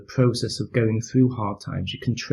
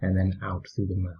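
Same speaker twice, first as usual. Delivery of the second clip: calm, unhurried meditation voice with long pauses; guided meditation. Real, not acted. Teacher leading listeners through a mindfulness practice, calm guided meditation. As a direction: gently guide them through breathing and body awareness, leaving space between phrases.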